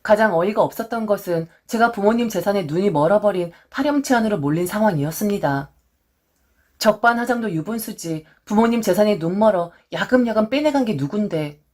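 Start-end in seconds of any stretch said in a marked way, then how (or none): none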